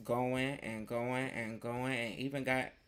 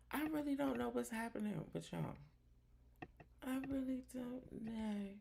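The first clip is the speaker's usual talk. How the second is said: exasperated high bewilderment; 9 semitones higher, 7 dB quieter than usual. Real, not acted. Host exaggerated bewilderment.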